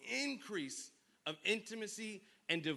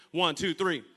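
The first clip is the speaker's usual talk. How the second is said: counting in; 12 dB louder than usual. Real, not acted. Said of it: "Okay, on three".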